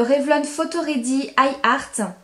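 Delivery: "Revlon Photo Ready Eye Art" said with French vowels and French stress; brand name read in a heavy French accent, with no attempt at English; strong French accent on English. Real, not acted. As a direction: franglais. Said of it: "Super accent anglais".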